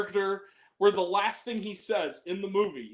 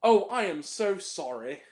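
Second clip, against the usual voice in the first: imitating Alfie; 3 semitones higher than usual. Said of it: "and he goes".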